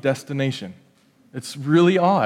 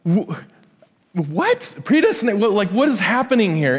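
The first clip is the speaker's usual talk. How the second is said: baffled reaction; 5 semitones higher than usual. Retold or imitated. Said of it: "And I'm like".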